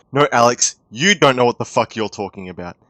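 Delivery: loud, heated telling-off; angry shout. Real, not acted. Ranting YouTuber yelling at the dev, angry. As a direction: shout him down, furious.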